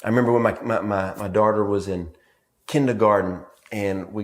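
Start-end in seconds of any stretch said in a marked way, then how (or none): none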